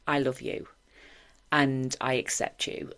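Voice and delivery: tender self-affirmation. Retold or imitated. Loving herself in the mirror.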